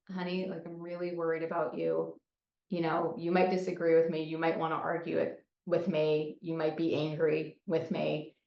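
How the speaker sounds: gentle, even-voiced concern; loving limit-setting. Parent to kid who came home wasted, loving concern. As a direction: keep it tender and unhurried. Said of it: "in a loving way".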